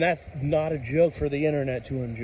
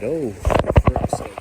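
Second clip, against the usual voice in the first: startled exasperation; 6 dB louder, slower than usual. Real, not acted. Lightning flash startles him.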